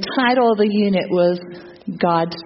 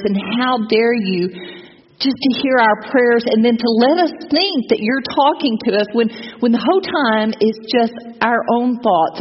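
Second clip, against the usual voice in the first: rising, accusing reproach to God; retold bitter anger; 2 semitones higher than usual. To God, charging that he never speaks, in bitter mock anger. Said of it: "that made me even angrier".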